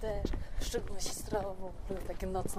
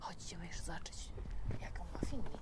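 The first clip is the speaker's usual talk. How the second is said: quiet at night; 3 semitones lower, 6 dB quieter than usual. Real, not acted. Walking outside at night.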